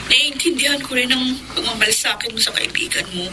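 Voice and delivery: soft whisper. Acted. Whispered line in drama.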